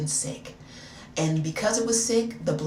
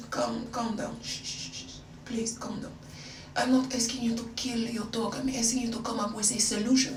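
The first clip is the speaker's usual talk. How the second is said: softer mock French accent, hushing; put-on French accent; 2 semitones higher, 4 dB quieter than usual. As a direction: placate him in a light French accent. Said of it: "I still had the accent".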